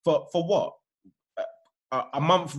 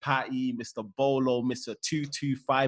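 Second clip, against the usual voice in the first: podcast host intro; 2 semitones lower than usual. Acted. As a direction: open the show like a host.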